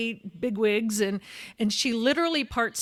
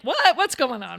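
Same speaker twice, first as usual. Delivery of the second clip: acted bewilderment; 3 semitones higher, 7 dB louder than usual. Thinking she was being punked, loudly bewildered.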